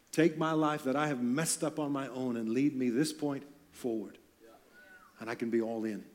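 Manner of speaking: soft, hushed prayer of surrender; humble prayer. Shown as a demonstration. Preacher modelling a sinner's prayer for listeners, hushed and humble. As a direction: pray it softly, as a broken sinner.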